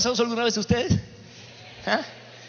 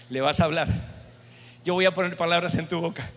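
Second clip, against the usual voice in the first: lightly voiced low divine command; a hint of a lower, steady God voice; voice of the Lord; 4 semitones lower than usual. The Lord reassuring the reluctant priest, lightly lowered and firm. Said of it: "el Señor que me decía".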